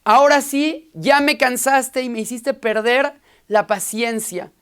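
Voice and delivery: rabbi snapping at the rude parrot; fed-up rabbi. Acted. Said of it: "Le dijo el rabino, "Ya estoy harto".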